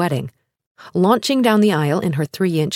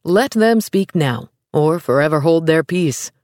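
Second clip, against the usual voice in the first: solemn officiating priest. Acted. Priest's wedding vow line.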